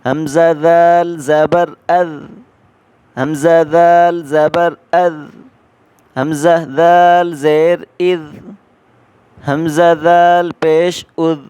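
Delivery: "از" with the tongue tip just past the teeth; tongue slightly out. Shown as a demonstration. Teacher showing how to read the letter in "از", tongue slightly out. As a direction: say "از" with the tongue a little outside. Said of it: "زبان کو ہلکی سی باہر نکال کر پڑھیں".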